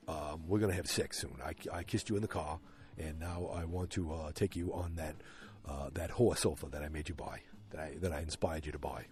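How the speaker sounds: low, soft, halting suitor impression; Henry Francis. Podcast host imitating Betty's suitor, low and halting. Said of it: "do a good Henry Francis".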